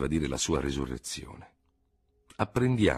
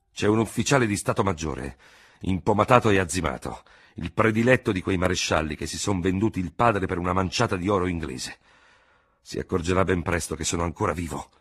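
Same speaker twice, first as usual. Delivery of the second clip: dogmatic exclamation; 4 dB louder than usual. Acted. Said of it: "esclamò in tono dogmatico".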